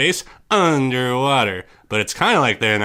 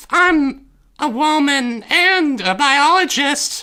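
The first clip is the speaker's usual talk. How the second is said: very loud, high-pitched belted voice; 14 semitones higher, 3 dB louder than usual. Impersonating a film's cast member on request, loud Sharon Stone impression. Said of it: "You're so loud right now".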